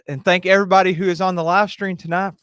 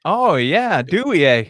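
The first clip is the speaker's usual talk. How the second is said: hint of put-on Canadian accent; mock Canadian accent. Co-host teasing the Canadian guest, mock Canadian accent. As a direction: lightly imitate a Canadian with a questioning eh. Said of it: "a Kentuckian trying to talk like they're Canadian".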